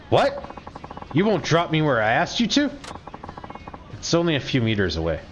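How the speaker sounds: sharp high What, then indignant; outraged disbelief. Acted. Shrill outraged customer protest. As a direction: customer balks at being dropped short.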